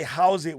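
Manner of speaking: "how's it" with the HOW said in full; fully said HOW. Shown as a demonstration. Pidgin explainer warns against it, "how's it" over-pronounced on the HOW. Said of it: "when you fully say the how".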